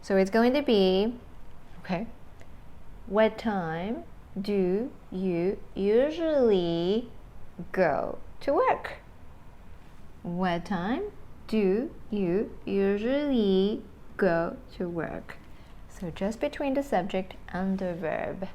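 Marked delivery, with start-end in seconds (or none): 3.1-9.0 word-by-word model. Shown as a demonstration. Models the example question word by word. 10.2-15.4 word-by-word model. Shown as a demonstration. Repeats the example question slowly.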